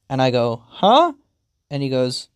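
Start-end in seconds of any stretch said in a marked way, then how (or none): 0.7-1.1 high, loud questioning yelp; puzzled. Acted. Pet reacts to owner's food offer, puzzled. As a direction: blurt it with pitch shooting up.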